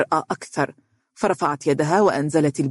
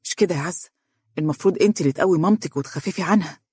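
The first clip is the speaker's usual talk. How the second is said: gentle reproach; faster than usual. Acted. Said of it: "وقال لعزة بعتاب".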